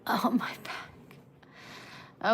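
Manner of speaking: slow, breathy groan of back pain; a real ache pulled out slowly. Real, not acted. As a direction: drag it out like your back just seized. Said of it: "my back's hurting".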